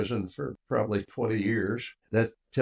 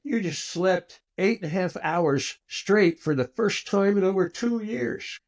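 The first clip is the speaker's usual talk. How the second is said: choked up, pitch rising as it goes on; getting emotional; 7 semitones higher than usual. Real, not acted. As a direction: push through the story while holding back tears. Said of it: "I'm gonna get emotional here".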